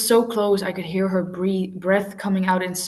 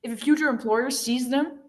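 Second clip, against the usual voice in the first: snapping; 7 semitones higher than usual. Acted. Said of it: "I snapped".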